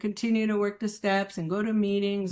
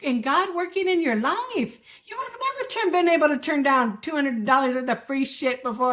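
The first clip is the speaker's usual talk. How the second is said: raised, insistent urging; imitated emphatic sponsor; 4 semitones higher than usual. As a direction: drive the point home like a sponsor. Sponsor urging her to see.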